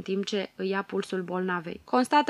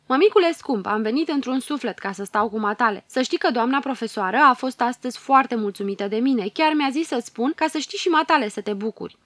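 put-on bright, eager, louder little girl; excited child; 3 semitones higher, 6 dB louder than usual. Girl rushing to her sick mother, excited and loud. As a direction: burst in eager to share good news.

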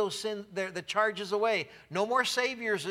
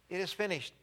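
soft echo; 7 dB quieter, faster than usual. Acted. Preacher echoing the victory cry back to the congregation, softly. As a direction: echo the cry quietly to yourself. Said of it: "Calvary resounded with this one word".

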